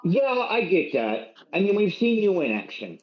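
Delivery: lightly put-on Irish lilt, gently advising; a hint of Irish brogue, kindly counsel; Irish accent. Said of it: "Where the fuck did this Irish accent come from?".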